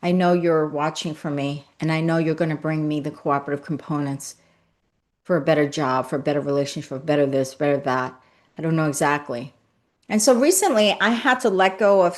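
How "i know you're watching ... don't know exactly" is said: a quiet prayer. Shown as a demonstration.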